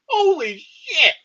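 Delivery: high, loud amazed outburst; excited exclaim. Retold or imitated. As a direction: gasp it out like you can't believe it. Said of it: "And I'm like".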